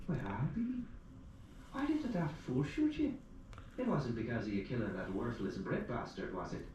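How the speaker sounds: put-on an old widow gasping at the news; shocked old Irish widow. Old widow hearing narrator was shot, high and alarmed.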